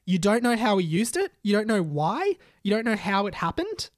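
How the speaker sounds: rapid-fire questions, each rising at the end; incredulous questioning. A narrator's reading. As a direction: press with three rising questions. Teacher grills Ron in story.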